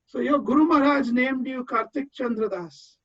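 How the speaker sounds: teasing quote, names said plainly; gentle ribbing, Kartik Chandra Das in plain English vowels; joking. Retold or imitated. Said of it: "in a very joking manner".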